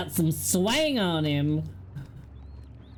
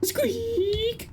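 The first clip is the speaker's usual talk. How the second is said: tiny squeaking rat voice, much higher; rat squeaks; much slower than usual. Pretend. You're loud and squeaky.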